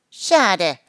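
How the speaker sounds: disappointed, lightly neighed; whinnying horse. A narrator's reading. Horse regrets the end of the fuss, whinnying. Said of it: "wieherte Rodrian".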